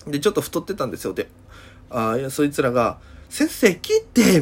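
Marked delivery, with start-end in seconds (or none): 3.3-4.4 higher, louder mock call to the teacher; loud schoolgirl call. Brash girl calling the teacher in class, mock loud. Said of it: "でかい声で喋るんですよ".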